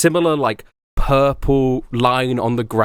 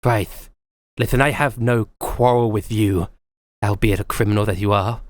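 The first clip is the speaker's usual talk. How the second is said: a hint of the weary, irritated officer; Faraday scolding Navina, lightly voiced exasperation; Faraday's way of talking. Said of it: "I forgot that's how he talks".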